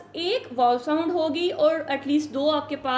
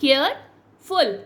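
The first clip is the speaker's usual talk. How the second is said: केयरफुल said very slowly, syllable by syllable; slow demo; 4 dB louder, much slower than usual. Shown as a demonstration. Teacher spelling out केयरफुल slowly for students. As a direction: stretch out केयरफुल so the two syllables are heard. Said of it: "ये मेरे पास two syllable है".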